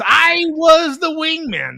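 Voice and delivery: "I" stretched very high and loud; emphatic I. Acted. Insisting to co-host on wingman role, drawn-out emphatic "I". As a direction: hammer a long, high "I" before the rest.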